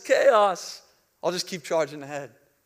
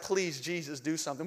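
much softer pleading prayer; desperate quiet plea; 3 semitones lower, 9 dB quieter than usual. Retold or imitated. Pastor and Jeff praying over the alarms, in a soft desperate plea. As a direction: beg under your breath. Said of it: "Jeff and I are like".

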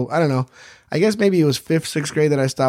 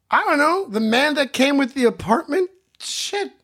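put-on high clueless kid; 10 semitones higher than usual. Young self clueless answer.

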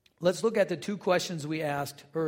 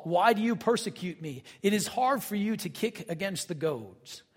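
scripture reading. Acted. Reads Paul's account aloud.

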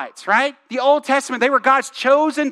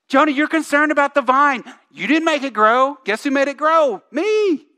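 mic-drop God; 3 semitones higher than usual. Retold or imitated. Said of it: "God drops the mic".

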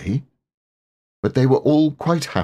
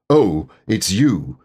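cross; 3 dB louder, slower than usual. Acted. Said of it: "said Owl crossly".

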